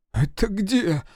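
high-pitched whimpered question; whimpering. A narrator's reading. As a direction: ask it with a small, tearful whimper. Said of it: "всхлипнул Серёжа". (жалобно всхлипывая)

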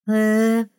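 vague mumbled hesitation. Acted. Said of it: "промямлила неопределённо".

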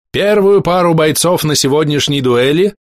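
slow, high herald proclamation; town crier. Acted. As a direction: announce it slowly, like a herald. Herald announces first pair.

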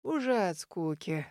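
put-on slow, soft old man's shrug of a line; brushing it off. A narrator's reading. Old man brushing off the teasing, slow and soft. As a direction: wave it away like an old man. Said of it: "Отмахнулся дед".

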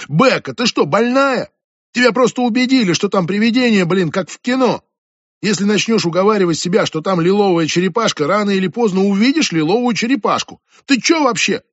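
high, loud furious rant; angry yelling. Acted. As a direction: tear into her friend. Julia yelling at Becca.

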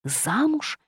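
high, rising mock-outraged questions. A narrator's reading. The witch, affronted by talk of marriage, high and outraged. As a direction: bristle at the idea, pitch climbing. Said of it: "возмутилась я".

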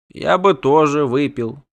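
slow, slurred creature speech; indistinct mumble. A narrator's reading. Doppler hints he wants beer too, mumbling. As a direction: mumble it slowly. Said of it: "невнятно сообщил Телико Лунгревик".

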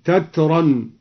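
تترا said with final n, "tatran"; tanwin. Shown as a demonstration. Teacher shows al-Duri's form, تترا pronounced "tatran". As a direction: end تترا on a clear "-an". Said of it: "قرأ الدوري بتنوين تترى".

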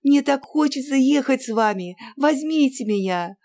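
high, loud begging; girl begging her aunt to take her; pleading. A narrator's reading. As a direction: beg the aunt eagerly. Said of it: "упрашивала Анна".

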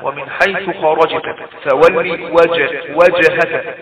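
loud, slow recitation bouncing ج in وجهك; qalqalah on ج. Shown as a demonstration. Teacher demonstrating still ج in وجهك, echoed qalqalah. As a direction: rebound each still ج, as in خرجت and وجهك. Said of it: "الجيم ساكنة من حروف قطب جد تقلقل".

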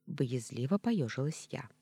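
plain reading voice

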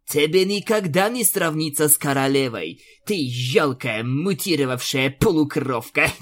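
scornful taunt ending in a laugh; mocking smirk. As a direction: sneer the insult. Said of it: "усмехнулась Аланис". (насмешливо)

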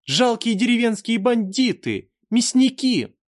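high, shrill-free ringing angry shout. A narrator's reading. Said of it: "сердитый звенящий голос".

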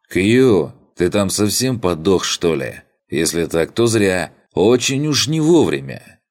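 loud impatient call through gate; shouting. Acted. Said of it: "при этом прокричав".

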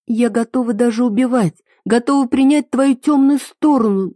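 put-on a girl vowing to accept his dark side; passionate vow. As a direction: swear it with all your heart. Heroine vows devotion.

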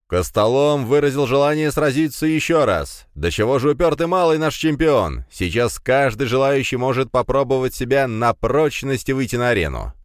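loud, high ringmaster call to the crowd; booming prize announcer. Acted. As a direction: hype up the arena like a showman. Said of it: "Ведущий объявил победителя, а затем продолжил". (громогласный конферансье)

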